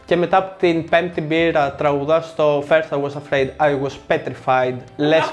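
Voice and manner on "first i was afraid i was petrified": imitating drunk karaoke English with a Greek accent; thick Greek accent. Karaoke friend after the fifth beer, Greek-accented English. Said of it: "Με αυτή την προφορά".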